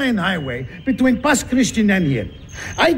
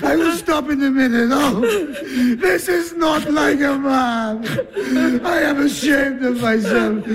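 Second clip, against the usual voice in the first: crying; 3 semitones higher than usual. Acted. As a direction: plead through tears. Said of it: "I always cry after a fight".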